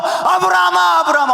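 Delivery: urgent high call, name shouted twice. Retold or imitated. Preacher voicing God's urgent call to Abraham, shouting. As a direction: call out his name in alarm. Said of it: "얼마나 다급하셨는지 하나님이 두 번이나 불렀어요".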